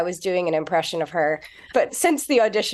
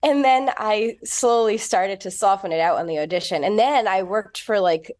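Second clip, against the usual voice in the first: softened British accent, put on; American doing a polished British accent; English accent. Shown as a demonstration. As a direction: speak in a convincing English accent. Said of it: "you really do sound English".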